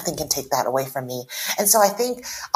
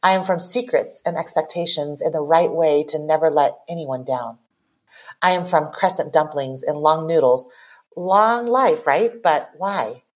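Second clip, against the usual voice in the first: poem reading. Acted. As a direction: read it like a confession, line by line. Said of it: "go ahead and read it".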